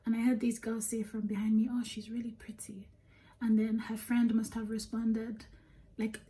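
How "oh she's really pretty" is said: whispering. Retold or imitated. Overheard girls behind her in line.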